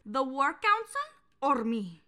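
put-on West Side Story line in a Latin accent. Quoting West Side Story to cohost, Latin accent. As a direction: quote it with a light Latin accent. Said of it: "West Side Story quotes".

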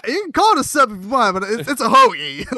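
high, loud retold argument; worked-up mock correction; mock-outraged insistence. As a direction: insist loudly, as in a playful dispute. Acted argument over sub versus hoagie.

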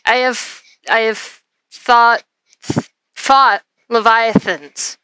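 slow lisping giant voice. Acted. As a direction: speak with a slow lisp. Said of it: "I'm trying to give her a lisp".

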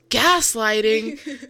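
put-on slow, drawn-out condescending boyfriend; smug hipster talking down; smug TikTok guy. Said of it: "he just goes".

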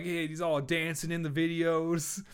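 loud gangster boss voice; Suge Knight. Retold or imitated. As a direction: bark it like a tough mogul. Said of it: "I might sound like Suge Knight here".

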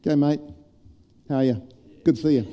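a light, hearty Kiwi bloke greeting held at arm's length; breezy blokey hello, keeping your distance; Kiwi male greeting. Shown as a demonstration. Showing the church a Kiwi male greeting, lightly hearty. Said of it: "The Kiwi male version".

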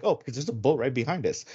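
retold line, lightly casual. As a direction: toss it off softly, as if it's nothing. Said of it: "he's so casually, he's just like".

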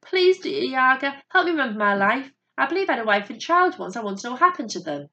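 imploring bear's appeal; pleading. A narrator's reading. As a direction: beg the witch for help. Bear begging the Yaga for help.

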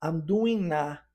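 "I'm doing na" with the n carried into "a"; linking doing into a. Shown as a demonstration. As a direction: join "doing" and "a" as "doing na". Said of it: "a gente une". ("I'm doing na" com a ligação do n)

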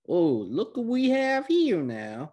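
slow, singsong "well, well" taunt; mock villain. Recapper as Boro finding the crashed airship, mock taunting.

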